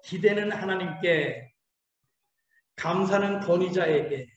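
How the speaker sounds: 기대는 하나님께 said slowly, word by word; slow call to repeat. Shown as a demonstration. Preacher leading the congregation's repeat, slow. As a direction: spell it out slowly for them to echo. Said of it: "한번 따라해보세요".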